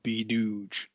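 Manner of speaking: perfume ad voice. Pretend. Mock perfume advert tagline.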